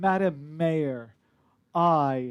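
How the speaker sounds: voice projected with emphasis. Retelling a character whose voice is magically projected: projected emphatic voice. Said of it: "emphasis or the projection of the voice".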